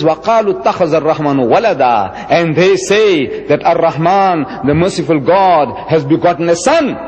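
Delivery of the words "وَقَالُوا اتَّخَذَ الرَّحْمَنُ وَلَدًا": quick fluent Arabic recitation of the verse; تلاوة سريعة; Quran recitation. Shown as a demonstration. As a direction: rattle off the Arabic verse fast, by heart. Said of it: "He says".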